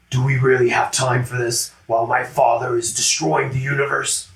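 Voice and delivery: a touch of a cold, clipped alien; lightly voiced impatient blue alien; impatient Nebula voice, lightly done; Nebula impression. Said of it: "She actually talks like this. That was well done".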